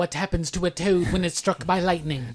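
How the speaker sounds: mock movie-line delivery, slightly theatrical; film line delivered wrong. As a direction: quote it as one long dramatic line. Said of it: "she delivered the line wrong".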